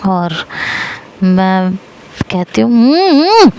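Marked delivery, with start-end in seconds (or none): 2.7-3.5 muffled hums. Retold or imitated. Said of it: "मतलब मैं कहती हूँ".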